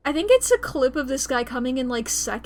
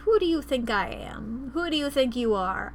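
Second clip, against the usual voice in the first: quoting the bowler; 4 dB louder than usual. Retold or imitated. Quotes a viral bowling video.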